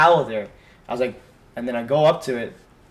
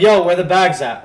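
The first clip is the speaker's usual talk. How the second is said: mildly raised mock call-out; retold scream; 4 semitones higher, 6 dB louder than usual. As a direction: imitate calling to friends far off, higher and louder. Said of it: "Like, we scream to them".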